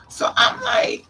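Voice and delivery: high, loud disbelieving shout; high shocked yell. Real, not acted. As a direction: cry out in outrage. Reacting to slur.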